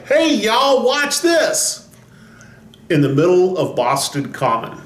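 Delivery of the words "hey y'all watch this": high-pitched redneck holler, mildly shouted; Texas redneck shouting. Acted. Redneck yelling in the middle of Boston Common, hollered high. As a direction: call it out like a showboating country boy. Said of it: "like a Texas redneck shouting".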